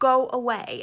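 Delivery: loud, full screaming. Retelling telling neighbours off through the door: retelling own scream. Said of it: "I screamed through the door".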